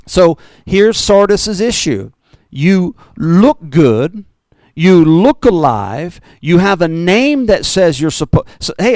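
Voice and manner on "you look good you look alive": mock admiring. Preacher mocking a church's look.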